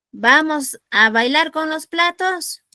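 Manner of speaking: teacher teasing the class with a wrong option; mock incredulous question. Shown as a demonstration. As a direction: drag it out as a silly suggestion. Teacher mocks an absurd answer.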